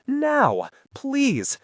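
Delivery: cornered man pleading, close to tears; nearly sobbing. Acted. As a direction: beg as if about to break down. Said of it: "Greg was nearly sobbing".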